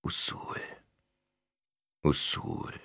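soft, whispered distant calling; far-off call. A narrator's reading. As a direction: call the name as if from very far away. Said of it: "Weit entfernt". (wie ein ferner, gehauchter Ruf)

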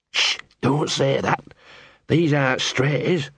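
slow, anxious hush; nervous hushed dog. Acted.

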